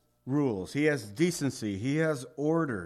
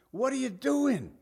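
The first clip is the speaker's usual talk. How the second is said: mock shout; 10 semitones higher than usual. Owner screaming at panda.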